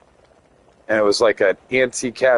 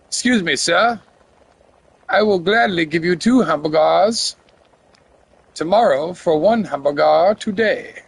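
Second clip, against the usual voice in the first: Wimpy voice; 5 semitones higher than usual. Acted. Quoting Wimpy line.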